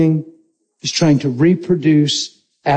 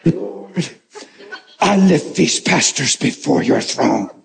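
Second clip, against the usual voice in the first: a hint of a grave prayer voice, lower; intercession voice; 3 semitones lower, slower than usual. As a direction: lightly put on a solemn intercessor's tone. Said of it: "put on my intercession face and voice".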